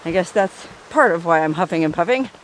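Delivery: winded from the hike; out of breath. Real, not acted. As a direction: talk between heavy breaths. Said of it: "I'm actually pretty winded".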